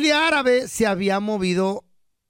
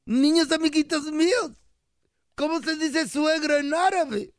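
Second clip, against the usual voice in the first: put-on higher, slowing child voice; lightly voiced Arab boy, raised pitch; boy addressing classmates; 4 semitones higher than usual. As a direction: put the question to the class as a joke kid. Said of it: "Les dije".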